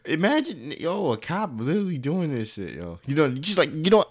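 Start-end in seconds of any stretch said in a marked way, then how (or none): 0.0-2.8 high loud words through laughter; loud high laughing rant; laughing outburst. Real, not acted. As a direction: cackle while ranting. Cracking up about cops.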